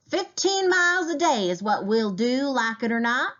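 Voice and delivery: high, forceful bellow of an angry trail leader; angry shout. A narrator's reading. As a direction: shout it right in his face. Angry trail leader confronts Kanker.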